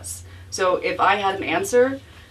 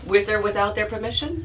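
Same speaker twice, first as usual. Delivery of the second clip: laughing; 3 semitones higher than usual. Real, not acted. Laughing at own joke.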